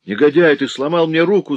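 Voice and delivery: pained howl. A narrator's reading. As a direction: cry out with a broken arm. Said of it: "завопил Николя".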